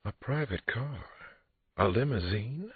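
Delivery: high, slow, delighted surprise; a woman thrilled at the car; high delighted disbelief; delighted exclaim. A narrator's reading. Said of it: "Christine exclaimed".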